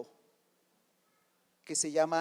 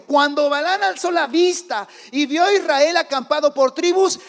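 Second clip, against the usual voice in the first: loud, high-pitched building proclamation; rising pulpit climax, getting louder and higher; full-force preaching; 7 semitones higher, 10 dB louder, slower than usual. Real, not acted.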